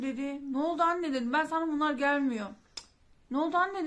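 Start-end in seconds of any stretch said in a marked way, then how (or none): 0.5-1.1 loud, high, alarmed "what happened"; alarmed cry. Retold or imitated. Alarmed question to mother. 1.3-2.5 shaken. Retold or imitated. Mother's shaken words. 3.3-3.9 loud, high, alarmed "what happened"; alarmed cry. Retold or imitated. Alarmed question repeated.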